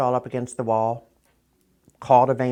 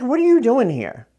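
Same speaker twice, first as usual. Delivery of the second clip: higher and louder, astonished; surprised question; 13 semitones higher, 8 dB louder than usual. Retold or imitated. Sergeant finding her in custody, a high astonished question. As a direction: ask like he can't believe she's there.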